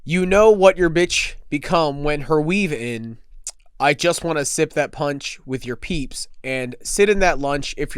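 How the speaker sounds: deadpan monotone lyric reading. Pretend. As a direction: read it flat and deadpan, slowly. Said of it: "in the most monotone I can".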